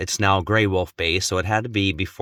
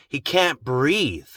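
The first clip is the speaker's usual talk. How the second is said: slow calm father; 3 semitones higher, much slower than usual. Retold or imitated. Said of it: "he says".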